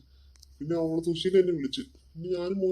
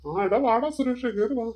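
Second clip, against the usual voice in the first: high, loud and slow welcome; drawn-out welcome; hearty welcome; 6 semitones higher, 3 dB louder, much slower than usual. Acted. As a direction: greet an old friend with open arms. Welcoming friend warmly.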